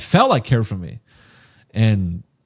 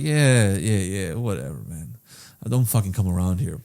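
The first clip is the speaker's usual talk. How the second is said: dropping low and much softer, trailing off dismissively; dismissive brush-off; 4 semitones lower, 5 dB quieter than usual. Retold or imitated. Son brushing off his sober dad, dismissive and sinking quiet. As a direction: shrug it off, voice sinking into a mutter.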